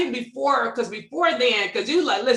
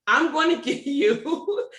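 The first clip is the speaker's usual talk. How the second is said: mock slick offer; 2 semitones higher, slower than usual. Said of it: "they try to have me like this".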